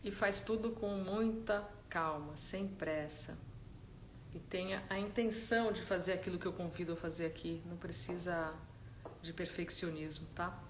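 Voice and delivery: calm, unhurried guidance with long silences; soft-spoken meditation leader, letting each instruction settle; guided meditation. Real, not acted. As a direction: ease them gently into stillness, leaving space between phrases.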